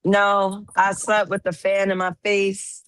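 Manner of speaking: slightly hoarse from sleeping badly. Real, not acted. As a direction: speak with a rough, hoarse throat. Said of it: "your voice sounds like a little hoarse".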